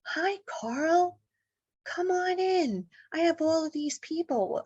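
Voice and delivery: high, drawn-out, airy greeting; aunt's welcome. Retold or imitated. Aunt greeting her newly arrived relative, high-pitched welcome. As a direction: imitate a gentle aunt calling someone in, pitched well up. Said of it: "And she's like".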